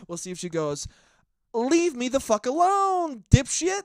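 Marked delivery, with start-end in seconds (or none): 1.5-3.8 higher and louder, slow furious yell; mock angry yell. Imagined girl yelling at the bearded guy who approached her, furious shout. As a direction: shout him off like a fed-up stranger.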